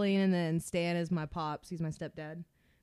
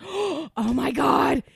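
high, loud, slow exclamation; mock-thrilled mom; 6 semitones higher, 5 dB louder, much slower than usual. Imagining mom added on Facebook, mock excited. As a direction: gush it slowly like a thrilled mother. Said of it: "then she'll be like".

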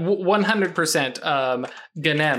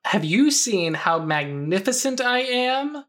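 grandiose storm spirit; 8 semitones higher than usual. Acted. Storm spirit voiced in play.

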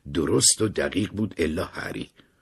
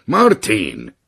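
called out; 2 semitones higher, 10 dB louder, slower than usual. Retold or imitated. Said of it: "داد زد".

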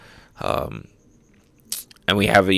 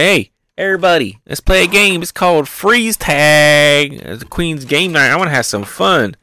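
hammed-up game host rallying the crowd; gleeful villain showman; 6 semitones higher, 3 dB louder than usual. Queen announcing freeze tag to everybody, hammed-up showman call.

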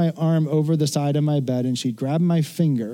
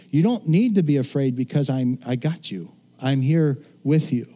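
gentle reassurance. Retold or imitated. Parent telling a scared child I got you, tender. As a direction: hold them close with your words. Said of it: "it's not a scolding".

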